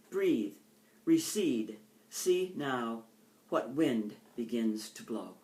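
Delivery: slow, measured poetry recital; poem reading. Acted. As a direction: let each image land with a pause.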